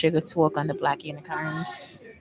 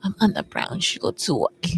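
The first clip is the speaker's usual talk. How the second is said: fake New York accent. Host opening her show in a fake New York accent. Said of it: "Me and my fake New York accent".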